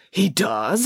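mildly excited, eager question; a touch of thrilled surprise. Acted. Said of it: "asked Missus Cannon excitedly".

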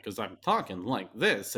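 exaggerated impression with pitch jumping on stressed words; Christopher Walken. Shown as a demonstration. Podcaster showing co-host how easy the voice is to exaggerate, hammed-up impression. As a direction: put on an over-the-top, oddly cadenced celebrity voice. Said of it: "Oh, I'm doing Walken".

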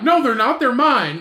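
retold bickering. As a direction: imitate someone insisting in an argument. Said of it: "they were just arguing back and forth".

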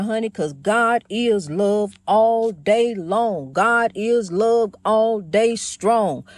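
slow and loving, drawn out; slow, loving sermon line; with love. Shown as a demonstration. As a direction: pour love into each word. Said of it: "Put some love in there".

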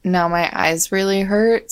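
ordinary delivery

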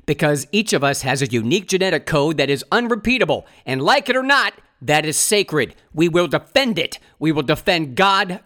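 measured rhetorical delivery with deliberate pauses; political speech read aloud. Acted. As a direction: deliver it like a translated rally speech. Reads translated political speech aloud.

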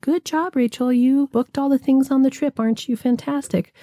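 high, sing-song pat on the back; mock praise. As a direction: gush like a cheerleader patting her back. Imagined praise from others.

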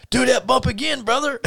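very high mock Russian wrestler voice; Ivan Koloff. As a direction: egg him on in a put-on Russian accent. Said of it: "staying in his Russian gimmick voice".

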